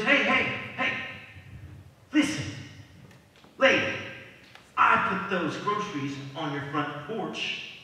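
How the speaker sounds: loud, high scolding rant; furious neighbor yelling over the fence; angry neighbor. Acted. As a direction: tell her off hotly. Angry atheist confronts her.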